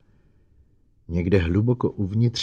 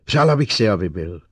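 hysterical edge; 7 dB louder than usual. A narrator's reading. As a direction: let the hysteria spill out. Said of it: "zmocňuje hysterie".

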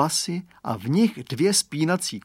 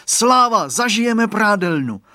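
much higher and louder joyful shout; a small boy whooping with delight; cheering child; 9 semitones higher, 8 dB louder than usual. A narrator's reading. Radovan thrilled by the thick fog, joyful cheer. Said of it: "zajásal malý Radovan".

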